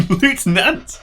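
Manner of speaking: high, slow, laughing question; amused disbelief. Real, not acted. Player querying how lieutenant is said, laughing disbelief. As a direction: repeat the word slowly, laughing, as a question. Laughs at odd pronunciation in game.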